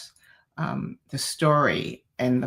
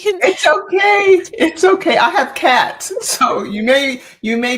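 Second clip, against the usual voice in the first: calm her down gently; reassuring; 13 semitones higher, 11 dB louder than usual. Real, not acted. Host reassuring a tearful guest, warm and soothing.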